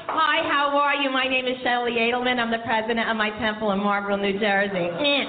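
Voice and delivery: droning North Jersey Jewish introduction with a bleat; hammed-up North Jersey Jewish sister-in-law; North Jersey Jewish accent. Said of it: "North Jersey Jewish dialect and says".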